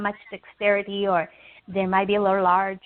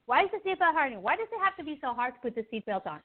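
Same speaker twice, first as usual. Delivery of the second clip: higher-pitched, frustrated complaining; unhappy complaining; 4 semitones higher than usual. Acted. Struggling passenger grumbles about the seatbelt, acted complaining. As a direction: fret in exasperation, mildly acted. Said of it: "unhappiness from joy, far from peace".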